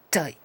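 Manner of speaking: "Toy" with half-open O gliding into I; O-I diphthong. Shown as a demonstration. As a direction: glide from O to I in "Toy". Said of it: "una O semiabierta combinada con una I". ("Toy" con O semiabierta más I)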